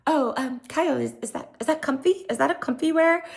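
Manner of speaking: high, mock-innocent catty question; catty jab. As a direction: fake innocence hiding a dig. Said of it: "just throwing, like, little jabs".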